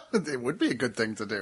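low, deadpan echo; odd mock-serious tone. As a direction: repeat it flatly back. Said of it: "I don't know why we're talking like this".

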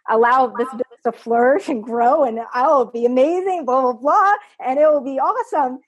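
retold starry-eyed optimism, played up; mock naive excitement. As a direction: gush it like a naive daydream, lightly mocking. Naive past thought, mockingly retold.

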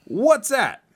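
high game-show call; high singsong. Acted. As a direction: sing it up high for the kid. Quiz game.

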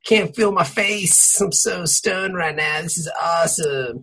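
slow stoner voice; imitating a stoned guy. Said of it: "You'd be all like".

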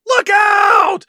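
high, loud warning scream; retold scream. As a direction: yell a sudden warning at the driver. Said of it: "Jessica Biel screams".

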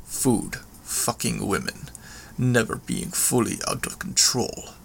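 lightly voiced villain, halting and restrained; a hint of a proud brute, phrase by phrase; understated menace; menacing villain monologue.

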